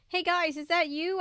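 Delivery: high loud call; crying out. A narrator's reading. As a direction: call out hopefully. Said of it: "I cried, listening hard".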